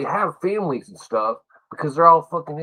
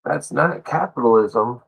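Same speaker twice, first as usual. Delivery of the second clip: usual speaking voice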